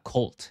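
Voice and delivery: "cult" said as one clear syllable, like "kolt"; model pronunciation. Shown as a demonstration. Teacher showing Thai learners how to pronounce it, "cult" as clear "kolt". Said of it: "ออกเสียงว่า".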